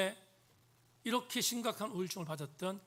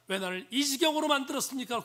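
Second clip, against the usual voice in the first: raised-pitch accusing question; attacking; 6 semitones higher, 4 dB louder than usual. Retold or imitated. Preacher quotes the psalmist blaming God, attacking. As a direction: imitate the psalmist's protest, pitched up. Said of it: "공경합니다".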